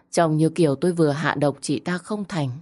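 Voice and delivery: usual speaking voice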